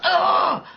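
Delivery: high frightened shriek; mock scared scream; startled yelp. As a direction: mimic a brother jumping in fright. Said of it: "He was like".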